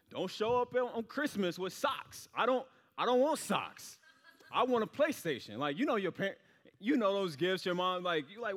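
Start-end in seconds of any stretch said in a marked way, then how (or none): 0.1-5.6 put-on pleading kid. Kid begging mom for PlayStation.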